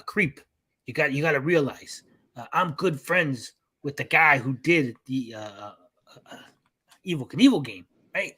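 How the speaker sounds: a hint of a smooth-talking buddy; lightly voiced, chummy and persuasive; Atari Creep voice. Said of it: "That's my, uh, Atari Creep voice".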